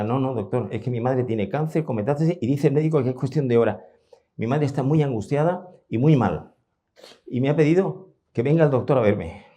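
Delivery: urgent pleading. Retold or imitated. Daughter begging the doctor to come before her mother dies, urgent and rising. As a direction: beg him to come today, voice climbing.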